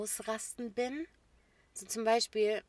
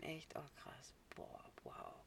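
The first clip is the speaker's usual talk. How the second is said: mock impressed; 4 semitones lower, 17 dB quieter, slower than usual. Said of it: "wie ein Profi mitspielen".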